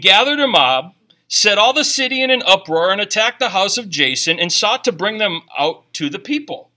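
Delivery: steady, carrying reading of the passage; scripture reading. Acted. Pastor reading Acts to the congregation, carrying and steady. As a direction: read it out like a proclamation. Reads Acts verse four on.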